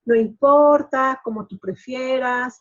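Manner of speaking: mild self-pitying surrender, slowly; a touch of martyr in a slow, yielding line; victim-like passive. Retold or imitated. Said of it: "el lenguaje de víctima".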